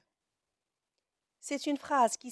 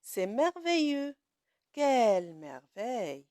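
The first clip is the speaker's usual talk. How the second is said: exclamation demo; 4 dB louder than usual. Shown as a demonstration.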